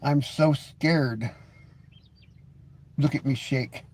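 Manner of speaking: mock fear. Mocking a threatening commenter.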